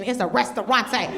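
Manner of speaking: "restaurante" rolled with vacation Spanish flair; mock Spanish "restaurante". Shown as a demonstration. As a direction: say "restaurante" like a tourist showing off. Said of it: "if I'm on vacation".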